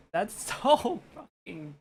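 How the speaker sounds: gush, overwhelmed with delight; breathless laughing fangirl outburst; excited laughing gush. Real, not acted. Streamer gushes over rainbow rose.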